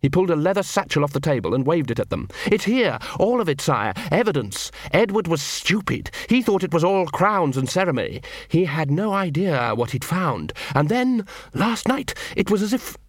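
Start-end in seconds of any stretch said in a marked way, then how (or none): 2.5-13.0 Cruces raving about his evidence, excited; high eager rush of words; excited pitch. Acted. Cruces pleading with the watchmen, excited and high.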